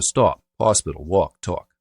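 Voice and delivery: "stop, hospital, walk, talk" all with rounded "aw"; Boston rounding on "stop, hospital, walk, talk"; rounded vowel. Shown as a demonstration. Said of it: "they also do it with the C O T words".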